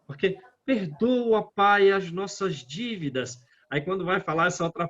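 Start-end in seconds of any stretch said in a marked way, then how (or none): 0.6-3.4 a fervent prayer to the Father; heartfelt plea. Shown as a demonstration. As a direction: ask for mercy with full emotion. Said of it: "a entonação é outra".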